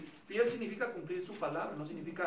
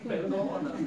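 a louder, pleading perdóname; repeated plea for forgiveness, raised and pleading; mock pleading; 7 dB louder, slower than usual. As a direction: beg perdóname again, a bit louder. Repeated confession, mock desperate.

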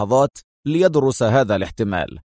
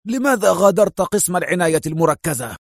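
exclaiming; 5 semitones higher than usual. Acted. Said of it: "هتف به المدير".

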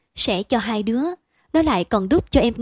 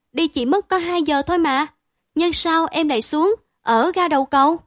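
higher, louder astonished question; wide-eyed disbelief; 6 semitones higher, 4 dB louder than usual. A narrator's reading. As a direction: gasp it out in disbelief. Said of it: "Chị cả mở to mắt".

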